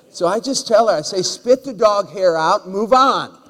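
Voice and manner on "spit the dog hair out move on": loud, slow retort to the wife; loud slow mock scolding of his wife; mock telling off. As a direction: boom it out slow like a playful rebuke. Telling wife off about dog hair.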